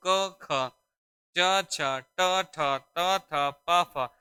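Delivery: क ख च छ ट ठ त थ प फ said one by one, without vocal buzz; unvoiced consonants demo. Shown as a demonstration. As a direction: spell out each voiceless letter clearly and separately. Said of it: "जैसे मैं कहूँ".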